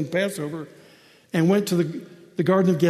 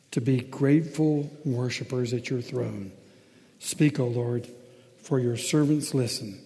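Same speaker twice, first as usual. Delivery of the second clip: low, measured public prayer; subdued, phrase-by-phrase prayer; pastoral prayer; 4 semitones lower than usual. Real, not acted. Leads the congregation in prayer.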